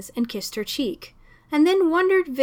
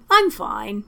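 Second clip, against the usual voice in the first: jovially. Acted. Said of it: "he said jovially".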